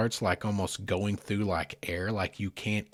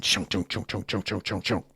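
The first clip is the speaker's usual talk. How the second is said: imitated engine sputter; 3 semitones lower, 3 dB quieter than usual. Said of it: "we hear it again".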